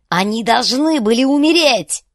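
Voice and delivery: high, very loud fanatical yell. A narrator's reading. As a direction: scream it out in rage. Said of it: "заорал Банум". (яростный крик)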